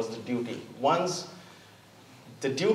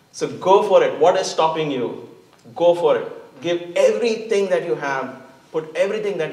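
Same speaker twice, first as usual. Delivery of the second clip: louder, pushing the crowd forward; rousing exhortation; 3 semitones higher, 5 dB louder than usual. Real, not acted. Speaker urging the audience to commit fully, rousing and loud. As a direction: urge them on with force.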